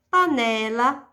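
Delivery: "Panela" with a strong, held "ne"; stress on penultimate syllable. Shown as a demonstration. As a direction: lean on the "ne" in "Panela". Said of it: "penúltima". ("Panela" com "ne" forte e alongado)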